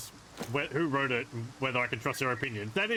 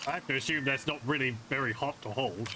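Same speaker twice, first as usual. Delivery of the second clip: talking through hiccups; hiccupping between words. Real, not acted. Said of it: "I've got the hiccups".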